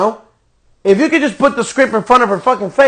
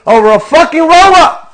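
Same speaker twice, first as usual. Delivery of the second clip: angry rant peak; 7 semitones higher, 6 dB louder than usual. Real, not acted. Angry rant at wrestling booking.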